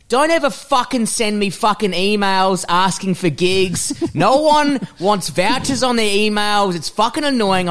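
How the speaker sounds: half-serious scolding, drawn out; mock irritated rant. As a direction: imitate a fed-up comic laying down the law. Retelling Carl's irritated rant to him.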